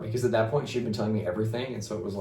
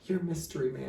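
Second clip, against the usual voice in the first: a lightly voiced sweet girlfriend, higher and softer; sweet imitation; 8 semitones higher, 6 dB quieter than usual. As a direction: coo it like a tender reveal. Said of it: "the real sweet face".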